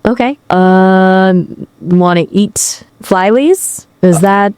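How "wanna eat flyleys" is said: slow, tentative attempt at a Chinese accent; botched Chinese accent. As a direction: copy a Chinese accent badly, questioning and unsure. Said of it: "flyleys is not really fried rice".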